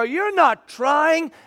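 high, very slow pointed retort. Retold or imitated. Pastor retorting to his kid, slow and pointed. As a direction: drag it out to make the point. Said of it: "So I go".

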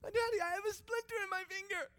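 put-on high, small child's voice, calmly; little girl calmly reporting a splinter. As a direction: play the seven-year-old daughter, composed. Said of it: "in a relatively calm voice".

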